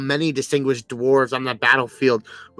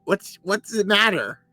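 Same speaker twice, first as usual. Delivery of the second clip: dismissive character voice; 6 semitones higher than usual. Acted. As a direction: wave off the complaint, high and breezy. Character brushing off offense.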